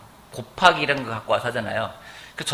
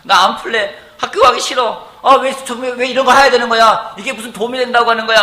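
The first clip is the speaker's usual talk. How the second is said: high-pitched mock tantrum, growing louder; whining, irritated child; 10 semitones higher, 7 dB louder than usual. Daughter griping to herself about math, high irritated whine. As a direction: imitate a daughter complaining about homework. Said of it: "짜증내고 있고 원망하고 있고".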